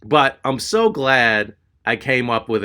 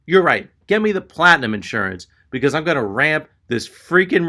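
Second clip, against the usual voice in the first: mock indignant rant; 5 semitones higher than usual. Imagined sarcastic rant at the clerk.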